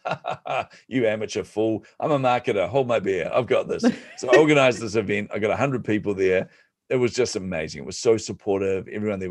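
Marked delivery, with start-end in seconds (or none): 0.1-3.8 hammed-up boast with a scoffing laugh; lightly acted overconfidence, pitch lifted; mock cockiness. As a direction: brush off the warning with playful bravado. Retold cocky reply to a warning.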